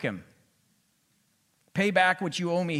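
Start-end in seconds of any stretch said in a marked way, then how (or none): 1.7-2.8 louder, higher, hard demand; stern demand. Acted. Servant demanding his debt from a fellow servant, loud and stern. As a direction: bark the order at the debtor. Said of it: "he demanded".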